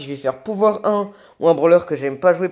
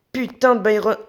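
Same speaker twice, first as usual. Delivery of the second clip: raging gamer; 6 semitones higher than usual. Real, not acted. Annoyed at enemy.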